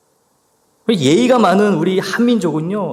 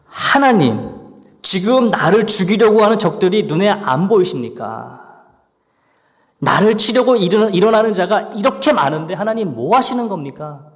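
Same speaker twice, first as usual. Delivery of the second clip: an aggrieved plea, pressing God for an answer; a believer protesting to God that he is being ignored, aggrieved; complaining to God. Acted. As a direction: complain straight at God, hurt and indignant. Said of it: "불평하고 있는 거예요".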